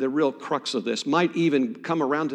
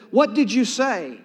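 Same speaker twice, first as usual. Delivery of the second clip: raised, high-pitched asking; higher-pitched, puzzled query; insistent question; 8 semitones higher, 4 dB louder than usual. Retold or imitated. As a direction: ask it keenly, straining to hear. Young man straining to hear pastor.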